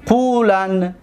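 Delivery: قولن as qulan, ending on a single n; light emphatic nun. Shown as a demonstration. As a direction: say قولن slowly, closing on n with no vowel. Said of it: "فقط نون توکیدی خفیفه".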